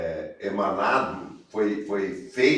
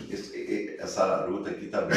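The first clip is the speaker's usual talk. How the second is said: talking with a mouth full of food; words round a bite of food; 4 semitones lower, 8 dB quieter than usual. Real, not acted. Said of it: "não vou falar de boca cheia". (com a boca cheia)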